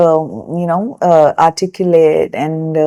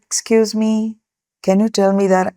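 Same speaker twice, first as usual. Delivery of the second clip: polite quiet request; 2 semitones higher, 6 dB quieter than usual. Retold or imitated. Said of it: "if she had said".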